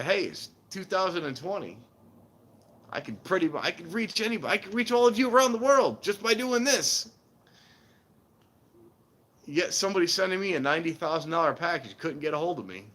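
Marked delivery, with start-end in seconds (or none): 0.0-7.1 mock scammer. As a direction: ham up the know-it-all. Mocking scammer logic aloud.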